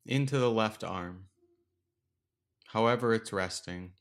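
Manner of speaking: unhurried meditation guide, long pauses between phrases; guided meditation. Acted. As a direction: gently lead listeners through the breath, leaving space after each instruction. Leads a breathing meditation.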